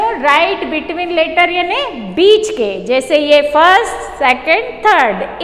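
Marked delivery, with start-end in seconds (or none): 0.0-2.8 write between letter drawn out slowly; slow it right down for the class; slow teaching. Shown as a demonstration. Teacher explaining the word to children, slow. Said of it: "तो बच्चों".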